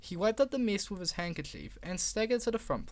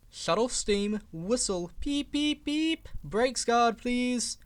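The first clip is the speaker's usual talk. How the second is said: urgent calling; 6 semitones higher, 3 dB louder, slower than usual. Acted. Driver calling orders.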